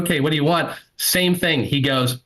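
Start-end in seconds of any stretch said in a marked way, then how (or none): 0.0-0.7 higher, nervous retold question; trembling. Kid behind the counter taking an order, mildly trembling. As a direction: lightly imitate a scared server. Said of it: "like, trembling".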